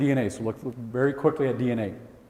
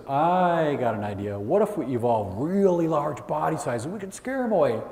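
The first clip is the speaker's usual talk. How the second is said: smug dinosaur; 2 semitones higher than usual. Pretend. Third dinosaur idea.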